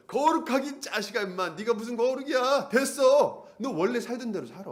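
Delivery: high, triumphant I-told-you-so jeer; crowing devil, shouting. Acted. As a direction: gloat and scold as the cocky devil. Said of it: "아주 더 소리를 지르는 거예요". (기고만장하게 소리치는 마귀)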